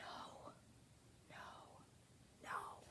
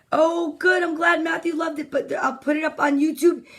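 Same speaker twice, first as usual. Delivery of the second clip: calling out; 3 semitones higher than usual. Real, not acted. Calling out to kids in another room.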